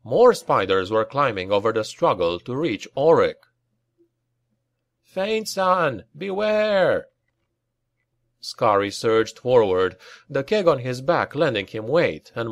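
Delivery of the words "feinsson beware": high, urgent battle cry; raised-pitch warning call; shouted warning. A narrator's reading. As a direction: call out a warning over the fighting. Battle warning to a threatened comrade.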